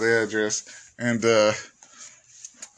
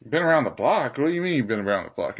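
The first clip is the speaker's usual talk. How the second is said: incredulous; 3 semitones higher, faster than usual. Retold or imitated.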